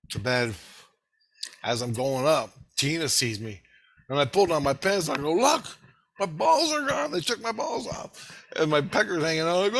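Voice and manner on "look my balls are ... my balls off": excited reveal. Retold or imitated. Showing Tina, shocked.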